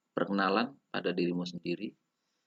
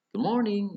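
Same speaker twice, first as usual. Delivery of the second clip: "good morning" peaking high on morning; drilled "good morning" with a high tune; intonation drill; 13 semitones higher, 4 dB louder than usual. Shown as a demonstration. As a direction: raise "morning" sharply, then drop. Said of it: "tidak, tidak sama ya intonasinya".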